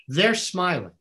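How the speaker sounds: "They're smiling" pressed a little harder on "They're"; repeated with stress. Retold or imitated. Mentor repeats it with emphasis. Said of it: "He goes".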